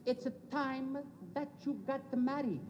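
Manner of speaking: lightly put-on Italian accent of a father; halting, deliberate Italian-English as a papa; Italian father's accent. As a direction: imitate an immigrant Italian papa's accent. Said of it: "he says".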